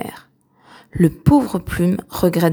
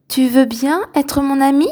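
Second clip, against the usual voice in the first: hopeful question; 6 semitones higher than usual. A narrator's reading. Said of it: "lui demande avec espoir".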